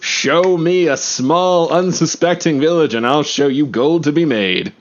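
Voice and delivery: smooth huckster pitching a scheme; scheming con man voice. Acted. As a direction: sell it like a greedy swindler. Player introduces his new character.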